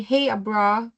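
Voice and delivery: imitating Australian coworkers dropping the R in "Abra"; mimicked Australian "Hey, Abra"; Australian accent. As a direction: greet "Abra" Aussie-style, no final R. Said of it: "Kulang ng R".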